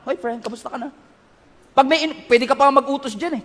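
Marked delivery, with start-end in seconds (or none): 0.1-0.9 soft, offhand hello to a coworker; casual greeting. Retold or imitated. Greeting the new coworker, casual and soft. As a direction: toss it off lightly like chatting with a peer. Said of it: "casual lang".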